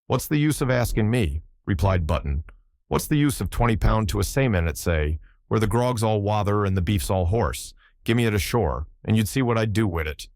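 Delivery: put-on old Irish seaman, lively brogue; Irish sailor accent. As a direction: tell it in a thick Irish brogue. Button retorts.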